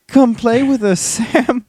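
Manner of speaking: high eerie ghostly call; sing-song like creepy ghost children; creepy ghost twins. A narrator's reading. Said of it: "said in unison, echoing unnaturally".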